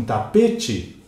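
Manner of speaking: "tapete" drawn out, stressed on PE; stress on middle syllable. Shown as a demonstration. Teacher introducing an example of tonic stress, "tapete" stressed on PE. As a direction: lean slowly on the PE of "tapete". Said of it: "a sílaba com destaque".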